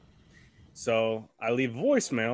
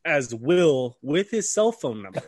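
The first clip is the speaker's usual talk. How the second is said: real laughter creeping into the words; laughing punchline; 4 dB louder than usual. Real, not acted. Cracks up at own punchline.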